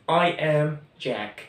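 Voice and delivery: each sentence said very slowly; teacher dictating word by word; slow, clear classroom drill; slow model sentences. Shown as a demonstration. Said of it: "الجمل كانت".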